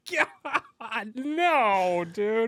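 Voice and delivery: high, put-on kid voice whining back; a high mocking whine of a kid; mock exasperated kid. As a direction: play the fed-up kid brushing him off. Kid voiced in funny story.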